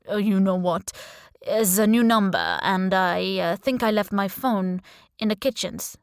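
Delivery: hesitant foreign charmer making excuses; lightly voiced suitor, stalling with little pauses; accented charmer. The speaker's put-on charming figure.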